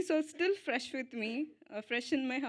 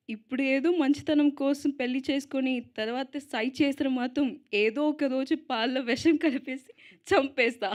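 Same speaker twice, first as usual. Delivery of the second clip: louder, punchy mock threat, quick delivery; reciting film dialogue; 3 semitones higher, 6 dB louder, much faster than usual. Actress quoting her favorite dialogue to the audience, louder playful mock threat. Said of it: "I have one favorite dialogue".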